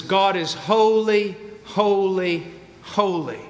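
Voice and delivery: slow, spaced "holy, holy, holy", each word falling; emphasis by repetition. Shown as a demonstration. Preacher quoting Isaiah to show emphasis, repeating "holy" with weighty pauses. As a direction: set each "holy" apart, slowly, stepping down. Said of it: "emphasis is created by repetition".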